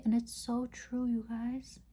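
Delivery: talking while doing mascara; distracted, mid-mascara speech; applying mascara. Real, not acted. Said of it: "Sorry, I can't talk and do my mascara".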